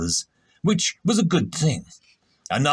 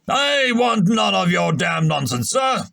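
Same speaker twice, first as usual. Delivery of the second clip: irritable snap; 6 semitones higher than usual. A narrator's reading. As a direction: snap at him like an annoyed captain. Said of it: "Harp Player snapped irritably".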